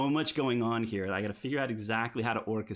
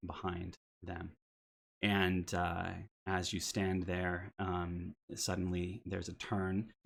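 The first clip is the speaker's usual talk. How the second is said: steady, descriptive scene-setting read; game master scene setting; 3 dB quieter than usual. A narrator's reading. Game master to players, describing the strangers, measured narration.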